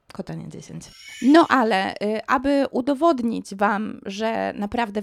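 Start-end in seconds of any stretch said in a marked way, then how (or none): 0.1-0.8 low, soft throwaway code mention; muted promo plug. Pretend. Vlogger sneaking in the code, low quiet plug. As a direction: slip the code in under your breath.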